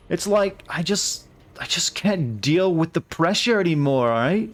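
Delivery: put-on high, slow valley girl voice; a hint of a dramatic valley girl. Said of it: "Maybe the Valley Girl voice?".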